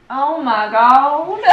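breathless after the workout; out of breath. Real, not acted. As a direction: gasp it out, winded. After the hard silks class.

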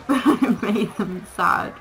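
laughing through the words, slow. Real, not acted. Player to the viewers, laughing at the sad animals, slow. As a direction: giggle out the line, slowly. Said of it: "I don't know why I'm laughing".

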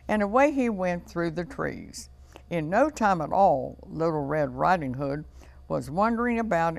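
measured, lively storybook narration; story reading to children. A narrator's reading. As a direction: tell a fairy tale to young children. Reads fairy tale to children.

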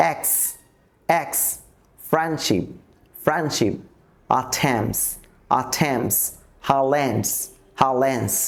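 ফ্রেন্ডশিপ said as frenship, Highlands as hilans; middle t and d dropped. Shown as a demonstration. Teacher demonstrating elision inside words, t and d left out. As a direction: leave out the d between consonants in ফ্রেন্ডশিপ and Highlands. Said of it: "তাহলে আমরা টি এবং ডিকে বাদ দিয়ে দিই".

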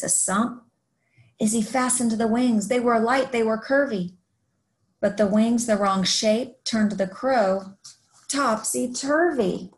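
lively rhyming story read-aloud; picture-book narration. A narrator's reading. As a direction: read a rhyming tale to young children.

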